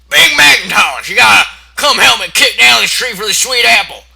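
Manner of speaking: high, loud hammed-up call for help; pleading pony shout. Pony yelling to her brother for help, loud. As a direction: shout for big brother like a whiny kid. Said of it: "and he's like".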